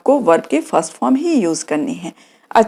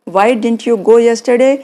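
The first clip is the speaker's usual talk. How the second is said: slow correct model; much slower than usual. Shown as a demonstration. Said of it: "यहाँ पे ये नहीं होगा".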